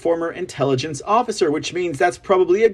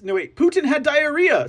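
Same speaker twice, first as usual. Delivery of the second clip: mock correction; 8 semitones higher than usual. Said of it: "Sorry, sorry".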